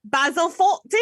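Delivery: a clumsy stab at a posh British voice; overdone British impression; bad British accent. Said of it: "You got the worst British accent I've ever".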